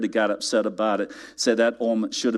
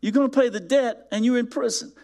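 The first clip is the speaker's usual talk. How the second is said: said as a sarcastic statement; flat restatement; 12 semitones higher, faster than usual. Shown as a demonstration. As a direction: let the absurdity sit. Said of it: "that's how ridiculous".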